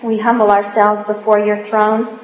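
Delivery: humble, reverent prayer voice. Acted. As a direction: pray earnestly before the group. Leads the group in prayer.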